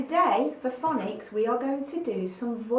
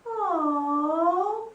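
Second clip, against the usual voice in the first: higher, louder drawn oh of letdown; mock disappointed oh; 7 semitones higher, 5 dB louder than usual. Shown as a demonstration. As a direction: let the oh sag in disappointment. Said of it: "and again".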